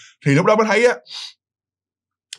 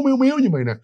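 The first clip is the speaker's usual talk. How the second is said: high thin whimper, miếu miếu; imitated whimpering cry; 9 semitones higher, much faster than usual. Narrator mimicking scared kids, high whimpering cry. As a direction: mimic the kids' frightened whimpering, pitched up. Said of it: "mà gọi như miếu miếu".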